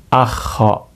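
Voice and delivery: "Akho" with the o barely started; swallowed o. Shown as a demonstration. Teacher showing the unfinished vowel, a cut-off "Akho". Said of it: "tapi nggak jadi O-nya".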